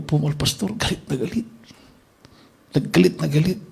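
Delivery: softly, anxious, half under the breath; hushed report. Retold or imitated. Telling the pastor the rebels are angry, in a hushed voice. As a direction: murmur the bad news so no one hears.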